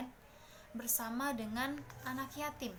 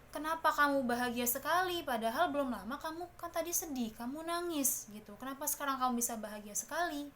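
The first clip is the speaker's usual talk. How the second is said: put-on excited children asking; 4 semitones higher, 4 dB louder than usual. Friends ask the happy orphan.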